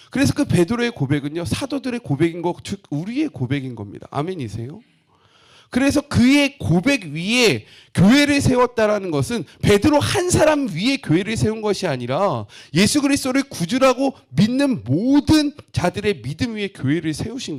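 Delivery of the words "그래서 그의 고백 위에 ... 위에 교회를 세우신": higher and louder, half-sung sermon climax; preaching at full force. Acted. Pastor to the congregation, preaching at full force. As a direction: proclaim it like the peak of the sermon. Preacher driving home main point.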